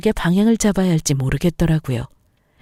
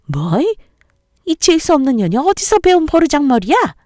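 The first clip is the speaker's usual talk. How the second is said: loud, high insulting outburst; furious mother-in-law; 9 semitones higher, 3 dB louder than usual. Acted. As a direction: explode at her. (격분한 시어머니의 욕설)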